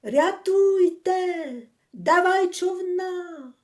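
high, slow, strained plea from far off; calling across the river in panic; desperate cry again. A narrator's reading. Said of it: "І знову".

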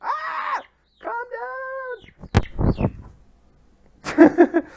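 real yelp then a loud high shout; sudden loud scolding cry; startled shout. Real, not acted. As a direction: bark it at the noisy turkeys. Turkeys making noise nearby.

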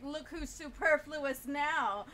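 slow, smug gloat; smug comeback. Retold or imitated. Mikey taunting the beaten villain, slow smug gloat. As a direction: savor the payback line. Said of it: "he's like".

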